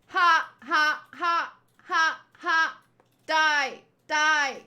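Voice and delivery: half-hearted robot voice; a hint of a robot taunting. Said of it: "doesn't even sound like a robot voice".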